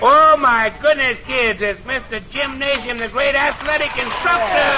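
host delighted at a surprise visitor; excited surprise. Acted. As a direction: gasp it out for the kids. Host announces surprise guest.

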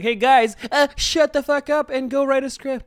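high, loud, slow fed-up complaint; annoyed listener voice. Pretend. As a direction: bark it like a fed-up fan. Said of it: "and they're like".

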